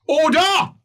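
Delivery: loud, high cry of order; mock court call. Judge calling the room to order.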